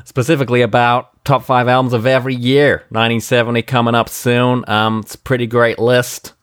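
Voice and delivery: loose, rambling mock American presidential accent; ad-lib in a spoofed American president's accent; improvised American-accent impression, hesitating between phrases; Trump. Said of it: "do it in a Trump accent".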